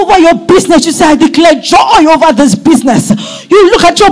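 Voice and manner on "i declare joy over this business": declaring aloud. Shown as a demonstration. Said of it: "you declare it with your mouth".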